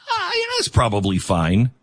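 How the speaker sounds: mock nonchalance; dismissive shrug. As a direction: wave the worry away. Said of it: "be suspicious of the phrase".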